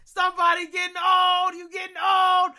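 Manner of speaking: roast him like a rowdy buddy; mocking friend. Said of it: "Genkai is like".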